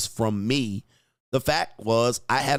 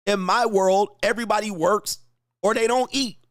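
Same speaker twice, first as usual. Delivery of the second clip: raised, higher fired-up voice, pushing every line out; heated rant; 6 semitones higher than usual. Real, not acted. Host lecturing oversensitive people about his world, raised heated rant. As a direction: lay down the law about your world, voice up and hard.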